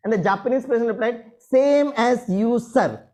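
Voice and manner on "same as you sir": drawn-out punchline. Retold or imitated.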